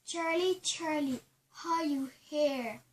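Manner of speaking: deliberate call, slow on the question; spirit summoning. Pretend. Calling a spirit in challenge.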